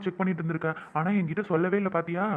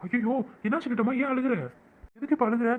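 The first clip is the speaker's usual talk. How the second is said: higher, worried questioning; alarmed; 5 semitones higher than usual. Acted. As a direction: rush to her, startled and concerned. Husband alarmed she is crying. (பதட்டமான கேள்வி)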